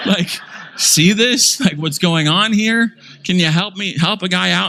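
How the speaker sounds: high, pleading and theatrical; hammed-up call for help to the elders; a touch of mock distress; mock helpless plea. Preacher pleads to elders mockingly.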